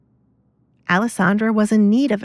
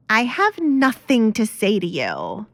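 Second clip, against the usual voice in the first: character voice; 3 semitones higher than usual. Acted. Kate storms off from father.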